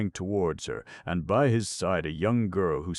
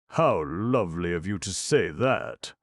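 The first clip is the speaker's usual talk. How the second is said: delighted exclamation; 4 semitones higher, 7 dB louder than usual. A narrator's reading.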